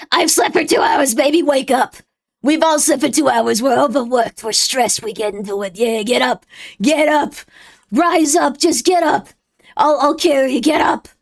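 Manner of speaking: loud rousing pep talk to the sleepy crowd; rally them out of bed, half joking; mock pep talk. Streamer rallying tired chat to get up, loud mock pep talk.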